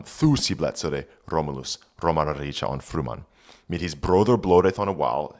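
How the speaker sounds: put-on reading Old English aloud; careful Old English pronunciation. Shown as a demonstration. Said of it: "reads Old English text".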